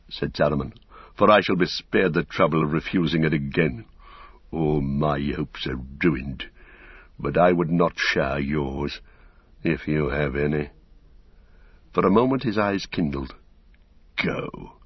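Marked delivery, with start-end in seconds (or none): 1.2-10.7 bitter Saruman. Acted. Saruman refuses a last chance, proud and bitter. 14.2-14.8 breathed, voiceless command; hushed dismissal. Acted. Saruman dismisses his pursuers, in a venomous whisper.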